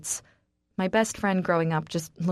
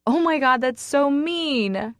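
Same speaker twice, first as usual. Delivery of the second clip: laughing; 7 semitones higher, 5 dB louder, slower than usual. Acted. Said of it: "I burst out laughing".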